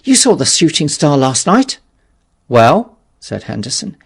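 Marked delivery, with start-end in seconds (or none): 0.0-1.8 loud, higher, urgent question; breathless urgent shout; called out eagerly. Acted. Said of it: "he called". 2.5-3.0 loud reply. Acted. Henderson answers the shout.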